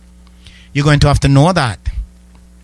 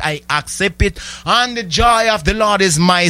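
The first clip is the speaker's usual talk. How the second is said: prayer declaration. Acted. Believer declaring healing to the Lord, softening.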